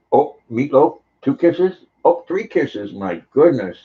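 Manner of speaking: high, delighted pet talk; cooing at the dog. Real, not acted. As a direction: coo over the dog's kisses.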